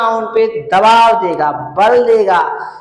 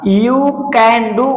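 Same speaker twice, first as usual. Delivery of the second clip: You can do drawn out very slowly; teacher dictating slowly; slow example read; much slower than usual. Shown as a demonstration. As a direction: read each word slowly for the class. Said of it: "कह रहा है क्या?".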